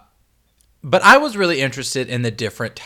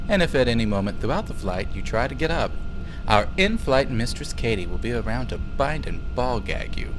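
lightly voiced airline announcement; flight attendant voice. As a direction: read it like a cabin crew greeting. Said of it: "let me get my flight attendant voice on".

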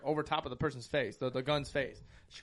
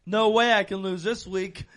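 mocking his friend; 5 semitones higher, 7 dB louder than usual. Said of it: "he's like".

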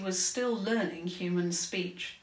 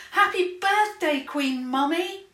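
high, loud birthday shout; 10 semitones higher, 8 dB louder than usual. Acted. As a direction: call it out with delight. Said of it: "Princess Isabel shouted".

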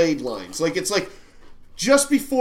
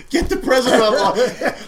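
mock urgent announcement; 5 semitones higher, 5 dB louder than usual. Acting out the movie's president scene.

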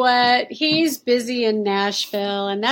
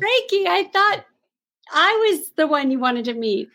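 pouty, higher mock hurt plea; mock sad plea; 4 semitones higher than usual. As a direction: play the jilted girlfriend, half-joking. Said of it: "it made me kind of sad".

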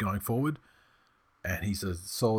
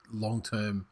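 whisper. Pretend. Mock-grave whisper about brain health.

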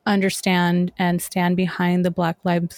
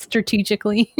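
whispered aside; faster than usual. Real, not acted. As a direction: breathe it like a secret. Joke about hoarding wasp spray.

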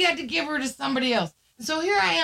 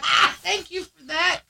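higher, put-on Southern reply; Southern accent; 5 semitones higher, 3 dB louder than usual. Owner mirroring the caller to relate, Southern accent. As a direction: slip into a Southern twang. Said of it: "You start talking Southern too?".

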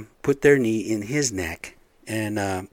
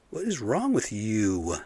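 stern repeat; slower than usual. Real, not acted. Asking the cops again, slow and stern. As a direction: drop back down and press the question slowly.

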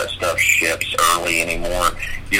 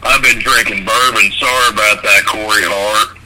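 Undertaker impression. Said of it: "really good Undertaker impression".

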